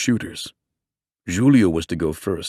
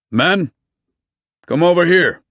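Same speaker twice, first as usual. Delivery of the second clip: calling out; 10 semitones higher, 5 dB louder than usual. A narrator's reading. Police chief calling men over.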